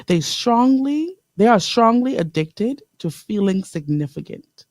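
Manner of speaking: deliberate reading, leaning on "strongly"; taking her time. Real, not acted. Radio host reads a quote to listeners, taking her time. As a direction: take your time over each phrase, unhurried. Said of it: "I wanna take my time".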